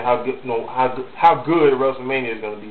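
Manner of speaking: stumbling, repeating how good; stuttering. Real, not acted. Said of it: "Excuse my stutter".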